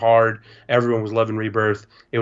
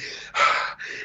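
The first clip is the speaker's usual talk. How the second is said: mock panicked gasp; 6 dB quieter than usual. Kid freaking out, retold.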